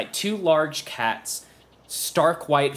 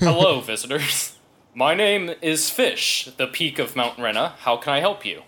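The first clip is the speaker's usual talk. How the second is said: dwarf elder voice. Acted. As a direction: greet the visitors as the temple's elder. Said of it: "This is as good as I'm gonna get".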